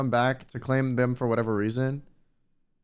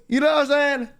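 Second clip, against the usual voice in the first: laughing through the words; light laugh while asking; 9 semitones higher than usual. Real, not acted. Laughs mid-line.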